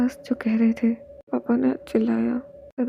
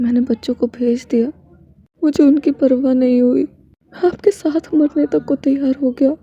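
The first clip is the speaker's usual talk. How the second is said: impassioned vow; 6 dB louder than usual. Acted. Husband's impassioned confession.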